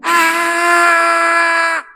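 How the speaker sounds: loud high long imitated battle shout "Ah"; crowd shout. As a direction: yell like a whole army at once. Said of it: "eles gritaram todo mundo junto". (grito de guerra imitado)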